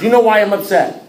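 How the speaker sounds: high, loud disbelieving question; incredulous. Retold or imitated. Member questioning his all-knowing sponsor, incredulous. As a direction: raise the voice in sheer disbelief.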